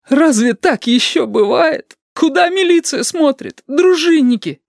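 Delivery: high crying, building to a shout; wail, then cry out for help; tearful outburst. A narrator's reading. Yurik wails to his rescuer, ending in a crying shout.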